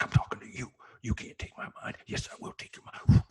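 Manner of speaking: raspy half-whispered rant, bursting loud; unhinged prisoner. Retold or imitated. Prisoner in solitary arguing with himself, unhinged. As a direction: rant like a man losing his mind. Retelling Hurricane hole scene.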